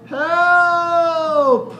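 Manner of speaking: high, loud panicked shout; frog's cry for help. Acted. Frog calls for help under the dogs, loud high shout. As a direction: yell it like a squashed frog.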